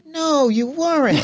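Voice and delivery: deadpan retort. Retold or imitated. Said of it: "And the guy goes".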